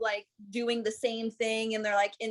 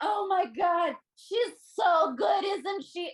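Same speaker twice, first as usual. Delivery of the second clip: put-on very drunk voice, slow and high; 8 semitones higher than usual. Planning to take a shot and then act very drunk. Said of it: "act like I'm very drunk".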